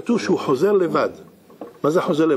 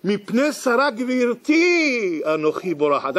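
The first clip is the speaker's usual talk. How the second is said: slow scripture recitation; 7 semitones higher, slower than usual. Acted. Hagar answers angel, biblical words.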